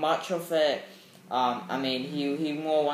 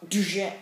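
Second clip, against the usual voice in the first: higher "doosh" of a blow; imitated impact sound; 6 semitones higher than usual. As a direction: punch out a crunching sound effect. Imitates back-breaking blow.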